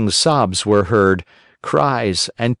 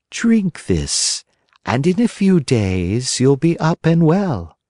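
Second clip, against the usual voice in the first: a tender, lightly higher coax; loving fairy; 6 semitones higher, slower than usual. A narrator's reading. Fairy offers Pinocchio medicine, lovingly. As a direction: soothe the sick puppet gently. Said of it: "said lovingly to him".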